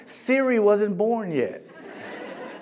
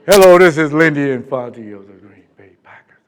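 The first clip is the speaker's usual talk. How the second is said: coach on the phone; 5 semitones lower, 9 dB louder than usual. Retold or imitated. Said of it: "coach on the phone".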